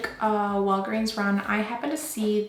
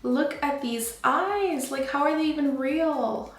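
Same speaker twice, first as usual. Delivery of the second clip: obsessed; 4 semitones higher, slower than usual. Real, not acted. Admiring finished eyes.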